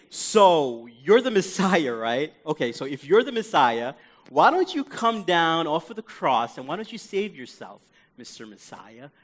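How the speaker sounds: taunt, then let the title fall away; scoffing. Acted. Thief on the cross taunting Jesus, scoffing. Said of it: "he's scoffing at Jesus".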